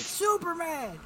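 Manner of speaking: high-pitched mock call-out; Hawkman. Hawkman hailing Superman from the monitor board, calling out. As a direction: call the name in a stretched, high voice.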